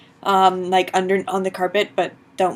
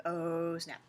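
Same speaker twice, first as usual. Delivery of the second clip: hushed, breathless whisper; 4 semitones lower, 10 dB quieter than usual. Retold or imitated. The kids finding the roach gone, whispering in dismay. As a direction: whisper it so the roach won't hear. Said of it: "and we're like".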